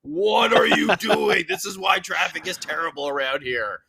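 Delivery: high, drawn-out exasperated yell; mock road rage, stretching the words; exasperated driver's rant. Driver ranting at car waiting to turn, exasperated yell.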